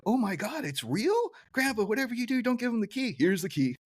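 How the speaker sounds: high boyish cartoon kid voice; Bart. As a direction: pitch it way up like a panicked cartoon boy. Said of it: "Bart's like".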